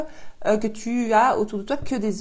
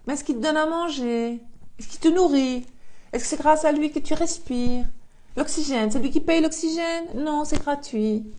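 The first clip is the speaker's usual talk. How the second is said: sarcastic; 5 semitones higher than usual. Real, not acted. Mocking rhetorical questions to viewer.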